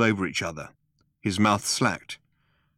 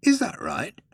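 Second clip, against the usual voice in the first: higher, sneering Vogon captain; 13 semitones higher than usual. A narrator's reading. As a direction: sneer the question high.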